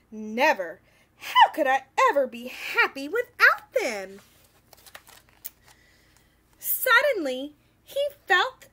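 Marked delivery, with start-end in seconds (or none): 0.1-4.2 near-tearful loud refusal; distressed. Acted. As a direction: cry out in despair. Distressed refusal, cry heard.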